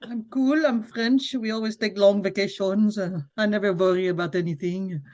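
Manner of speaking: lightly put-on French accent; laid-back mock Frenchman. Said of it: "He actually sounds like a French duck".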